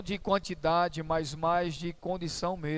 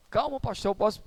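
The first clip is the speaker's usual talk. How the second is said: retold nervousness; 3 semitones higher than usual. Flustered church sister pleading with the pastor to let her explain, imitated nervously. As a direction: imitate a flustered woman, pitched up. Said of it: "ainda ficou nervosa e disse".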